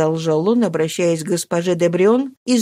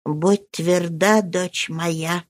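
tender comfort; much slower than usual. Acted. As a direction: soothe her gently, slowly. Old nurse comforts Mari.

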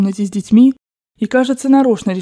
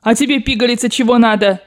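mildly raised, scornful demand; angry shouting; 2 semitones higher than usual. Acted. Grandmother rounding on the young Frenchwoman, angry demand. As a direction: turn on her with irritation. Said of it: "Бабушка неистово кричала на них".

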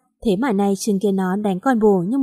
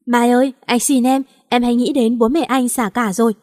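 louder, begging cry to his wife; desperate pleading; 2 semitones higher, 3 dB louder than usual. Acted. Husband begs wife Mai not to take him home, desperate loud pleading. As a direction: beg her with a cracking, desperate plea. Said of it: "vẫn cố níu lại van xin".

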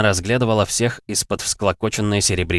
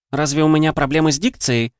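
a higher, biting snap; snapping retort; 8 semitones higher than usual. Acted. Viv snapping at the Catcher, a higher sarcastic retort. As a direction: throw it back at him. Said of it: "огрызнулась Вив".

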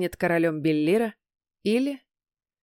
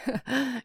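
put-on guffaw like a drunk king; drunken guffaw; 5 semitones higher, 6 dB quieter than usual. A narrator's reading. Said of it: "расхохотался Лотар".

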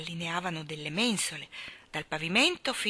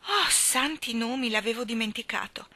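exclamation; 5 semitones higher than usual. Acted. Mary Poppins exclaiming she forgot the day. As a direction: catch yourself remembering. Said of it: "esclamò Mary Poppins".

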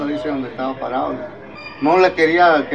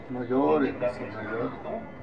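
soft, low hushing of the tearful; acted-out tender comforting; gentle consoling; 3 semitones lower, 10 dB quieter, slower than usual. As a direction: quietly soothe someone who is crying. Consoling people who began crying.

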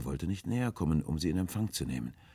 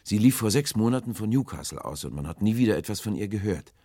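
raised, louder recollection; calling interjection; 6 semitones higher, 6 dB louder than usual. A narrator's reading. Sailor recalls the lost ship, exclaiming loudly. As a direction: break in eagerly, pitched up. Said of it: "rief ich dazwischen".

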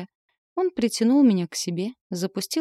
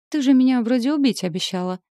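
snide question; 5 semitones higher, 5 dB louder than usual. Acted. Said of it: "ехидно осведомился Асмодей".

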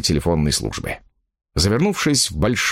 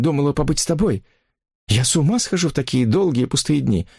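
higher, plaintive woman's voice; pleading woman; 7 semitones higher than usual. Acted. Mistress pleading with her lover, plaintive. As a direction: plead for just a moment together.

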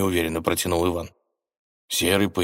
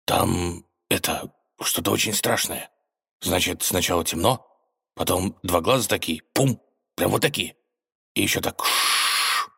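halting, shaken telling; shaken tearful witness. Acted. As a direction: tell it in scared fragments. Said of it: "сбивчиво рассказал".

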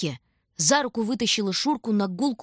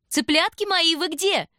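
high, loud honeyed call; sweet calling; 11 semitones higher, 5 dB louder, slower than usual. A narrator's reading. Aunt Vera calls for the children, high and sweet. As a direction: sing out for the kids.

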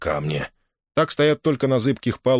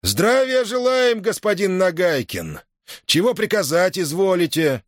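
angry shout; 11 semitones higher than usual. Acted. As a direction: bark it out with venom. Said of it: "зло прокричал".

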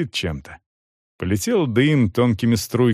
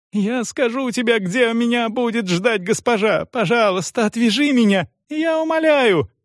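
much higher, panicked begging; desperate screaming plea; 12 semitones higher than usual. A narrator's reading. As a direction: beg to be untied. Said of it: "орала Франческа".

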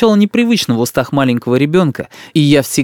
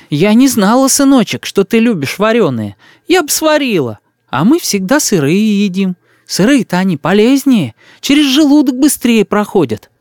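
put-on fussing old woman; 8 semitones higher than usual. A narrator's reading. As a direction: coo over the boy like a village granny. Old woman explains to boy. (старушка причитает над мальчиком)

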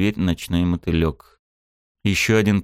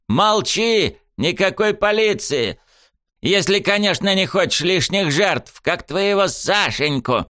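high, slow, gloating threat; menacing villain; 12 semitones higher, slower than usual. Acted. Sniffer taunts the grieving mother, high slow gloating threat. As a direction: savour every threat like a sadist.

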